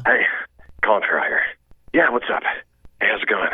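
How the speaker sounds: put-on casual American accent, lightly done; a hint of an Irish actor hiding his brogue in an American accent; relaxed American accent, chewing-gum ease; Colin Farrell's American accent. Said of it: "this is how he sounds".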